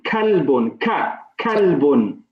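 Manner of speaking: crisp K in "Kalbun", drawn out; clearly pronounced kaf. Shown as a demonstration. Teacher models the letter kaf for students, clearly pronounced. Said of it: "is pronounced clearly".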